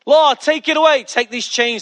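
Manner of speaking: retold plea, opening loud and high; pleading. Preacher voices Paul begging the Lord, pleading. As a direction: cry out to the Lord, easing off. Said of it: "he pleaded".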